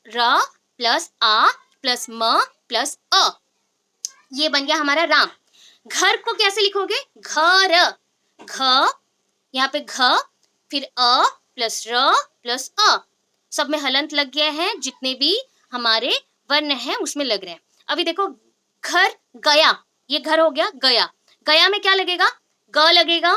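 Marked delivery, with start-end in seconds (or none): 0.1-3.3 spelled out. Shown as a demonstration. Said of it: "spelling out letters slowly". 9.8-13.0 spelled out. Shown as a demonstration. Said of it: "spelling out letters slowly". 18.8-19.8 drawn out. Shown as a demonstration. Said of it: "teacher demonstrates word slowly".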